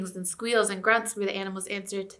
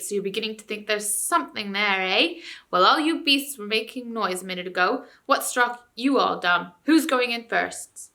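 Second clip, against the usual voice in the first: ranting ape; 4 dB louder than usual. Acted. Ape jeering.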